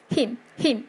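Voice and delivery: him very short, lips closed on the m. Shown as a demonstration. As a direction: say him quickly and shut the lips. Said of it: "记得闭唇哦".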